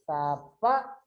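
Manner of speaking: "Sapa" broken off after a stressed "pa"; "Sapa" in two syllables, the second one strong. Shown as a demonstration. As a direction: lean on the "pa" of "Sapa". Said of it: "Ela tem mais forte aqui".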